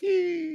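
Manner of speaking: high, drawn-out squealing creak; sustained high-pitched mock creak; imitated creak. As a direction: imitate a slow creaking tree in a thin high tone. Imitates sound of slowly falling tree.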